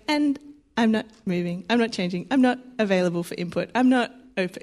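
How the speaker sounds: mild, restrained stubbornness; quiet, hard pride. Acted. Voicing nicely proud people who won't budge, quietly unyielding. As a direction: hold firm in a quiet, controlled voice. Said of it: "very quiet, nice pride".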